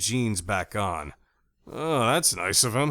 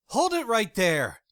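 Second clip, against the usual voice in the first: loud, high holler, gun raised; 12 semitones higher, 5 dB louder than usual. A narrator's reading. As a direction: shout it out to stop him. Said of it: "Jackie hollered".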